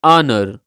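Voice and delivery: honor said with silent h. Shown as a demonstration. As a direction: honor as "onner", no h sound. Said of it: "तो इसकी pronunciation कुछ यूँ होगी".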